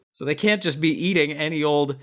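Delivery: talking with a mouthful of caramel; chewing candy while talking; mouth full. Real, not acted. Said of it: "you've got a mouthful of caramel right now".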